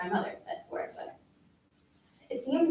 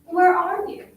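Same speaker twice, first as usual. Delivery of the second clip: raised voice, pitched up with a rising end; shouting; 7 semitones higher, 6 dB louder than usual. A narrator's reading. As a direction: call it out like a shouted question. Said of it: "You were shouting".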